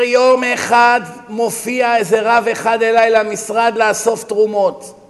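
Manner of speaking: booming, slow storytelling voice; loud emphatic telling. Acted. Preacher to congregation, retelling the rich man's tale, booming and slow. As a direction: lean in and boom each word slowly.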